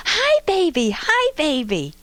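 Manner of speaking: put-on high, bright little girl calling to a baby; be a two-year-old greeting a baby; eager toddler voice. Toddler in a stroller greeting a sleeping baby, eager high voice. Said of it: "she reaches out and she goes".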